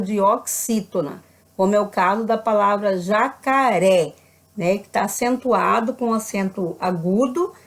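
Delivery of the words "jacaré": "jacaré" spaced out, stress on final ré; measured "jacaré" with its last syllable stressed. Shown as a demonstration. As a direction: land firmly on the ré of "jacaré". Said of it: "No ré".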